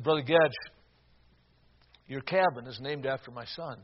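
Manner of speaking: low, hushed, halting words; understated sorrow, long pauses between phrases; grieving father. Retold or imitated. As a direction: quietly retell a tearful father's news. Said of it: "Tears are now flowing down his face".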